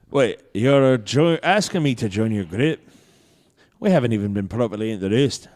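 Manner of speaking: lightly voiced dwarf; dwarf character. Game master as dwarf asked to join group, lightly put-on voice. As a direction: answer as a taken-aback dwarf. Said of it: "He goes".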